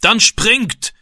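high, loud order to jump; shouted command. A narrator's reading. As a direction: yell at them to jump. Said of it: "rief der Mann".

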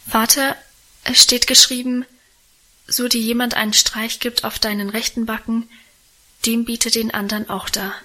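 ordinary delivery, nothing marked

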